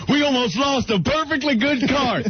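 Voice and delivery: high mock cowboy relief; Western accent. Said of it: "he's like".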